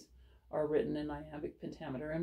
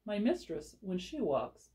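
poem reading. Shown as a demonstration. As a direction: read the sonnet to the class with care. Reads Sonnet 130 aloud.

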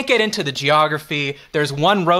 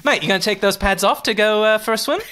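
lightly attempted Australian accent, higher at the end; put-on Australian accent; 3 semitones higher than usual. American host heckling a beach fighter, put-on Australian accent. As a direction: have a go at an Aussie accent. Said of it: "Incredible accent".

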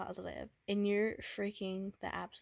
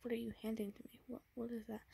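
put-on tender boyfriend; 3 semitones higher than usual. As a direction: coax her gently, afraid of what's coming. Boyfriend comforts sick girlfriend, fearing breakup.

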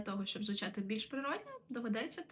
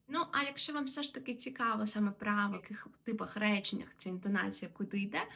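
whisper. Real, not acted.

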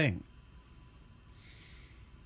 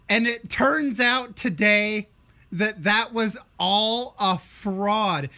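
redneck voice; 5 semitones higher, 5 dB louder, slower than usual. Pretend. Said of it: "I'm using the redneck voice for everything".

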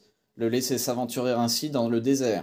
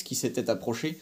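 usual speaking voice

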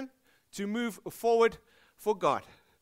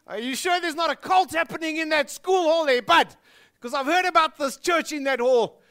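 loud, high scoffing East Rand guy; mock Benoni bro; suspicious Benoni bud; 7 semitones higher, 8 dB louder than usual. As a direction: poke fun like a Benoni mate. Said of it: "in Benoni, it goes something like this".

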